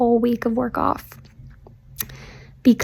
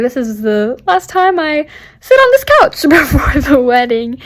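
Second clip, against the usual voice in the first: mock wistful inner voice; 3 semitones higher, 3 dB louder than usual. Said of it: "I'm just seeing everything through that lens, like".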